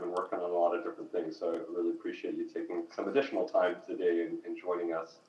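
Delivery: distant echoing mic sound; talking from inside a tunnel. Real, not acted. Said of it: "it sounds like you're in a tunnel".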